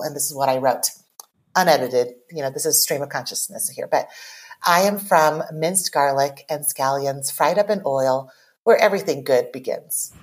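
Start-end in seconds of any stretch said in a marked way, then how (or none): 4.6-10.1 measured, deliberate spoken poem; poem reading. Acted. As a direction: recite line by line with small pauses. Reads own poem aloud.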